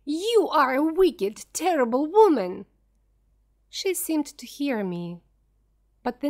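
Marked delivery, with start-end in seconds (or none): 0.0-2.7 screaming. Acted. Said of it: "Then I screamed".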